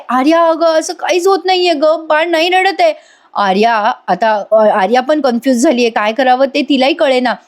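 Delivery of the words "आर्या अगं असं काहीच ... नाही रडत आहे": high-pitched worried voice; retold frightened report. Woman tells helper nothing is working, acted fear. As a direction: report it with mild panic, pitch raised. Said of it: "Nandini पण घाबरते आणि म्हणते".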